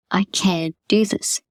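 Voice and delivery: slow, gentle self-encouragement; kind, gentle voice. Shown as a demonstration. Coach shows clients a gentle self-talk tone. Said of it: "Listen to how it's changing".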